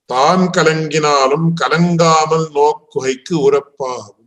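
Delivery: rapid practised chant of the Tamil text; scripture recitation. Acted. Teacher recites the commentator's Tamil words to students, rapid chant. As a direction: rattle off the verse from memory.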